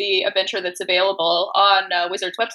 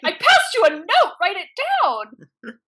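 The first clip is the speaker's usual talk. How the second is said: much higher, laughing through it, slowing at the end; laughing quote; 9 semitones higher, 3 dB louder, slower than usual. Retold or imitated. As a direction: say it while cracking up.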